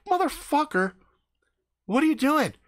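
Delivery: high-pitched, indignant demand; exasperated disbelief. Retold or imitated. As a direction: challenge him, pitch jumping right up. Confronts friend in exasperation.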